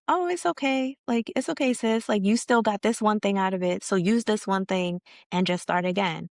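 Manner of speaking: acted sisterly reassurance, starting high; reassuring friend. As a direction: comfort a friend who just failed. Community comforting someone who failed.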